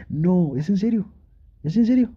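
can't believe your luck; excited is-this-real; delighted surprise. Acted. Partner offers maid dress.

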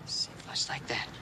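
gently whispered; soft whisper while guiding her hand. Real, not acted. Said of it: "give me your hand".

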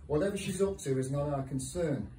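deliberate, lively spoken-word delivery with pauses; poem reading. Acted. Decorator-poet reads contract colours poem to an audience, deliberate recital. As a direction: recite line by line, landing each dry detail.

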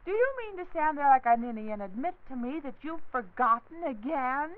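scolding wife. Acted. Wife scolding forgetful husband.

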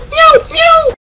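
very high, loud kitten meow; squeaky meow. Pretend.

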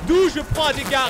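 shrill high outraged cry; high-pitched indignant squeal; outraged yelp. Real, not acted. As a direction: yell out in disbelief at the hit. Sudden damage in game, outraged.

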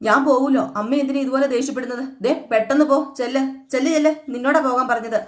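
lightly acted irritated reply; angry retort. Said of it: "ശ്രീകാന്തിന് കലി വന്നു". (നേരിയ ദേഷ്യത്തോടെ)

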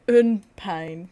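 hammed-up French accent; mock French accent. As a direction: fake French waiter.

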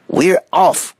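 high monkey voice; eager little monkey announcing departure; excited cry. A narrator's reading. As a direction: call out in high-pitched glee. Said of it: "cried the monkey".

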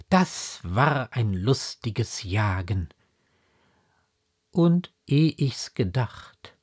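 slow, measured poetry reading; poem recitation. Acted. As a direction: recite it line by line, slowly, with long pauses. Recites the poem before discussing it.

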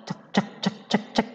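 soft clicking gecko call; tiny gecko chirp; gecko clicks. Shown as a demonstration. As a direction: click softly like a little gecko. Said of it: "dengarkan tuh suaranya cecak".

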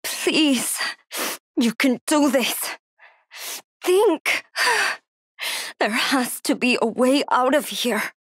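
breathy, anxious self-talk with heavy breaths; hushed fear. Acted. Trapped, hurt woman urges herself to think and stay unheard, hushed fear. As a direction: keep panic down, partly whispering between breaths.

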